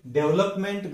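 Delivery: डेवलपमेंट as "DEV-lup-ment" with full "ment"; wrong pronunciation. Shown as a demonstration. Teacher quoting the common mistake, wrong pronunciation. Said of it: "गलती से उच्चार करते हैं".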